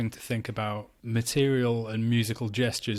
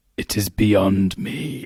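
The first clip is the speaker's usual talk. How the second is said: play-acted grand theatrical voice, very loud, very slow; 2 semitones lower, 8 dB louder than usual. Quoting a guy's reaction to a shelf of board games, really dramatic voice. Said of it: "like this really dramatic voice".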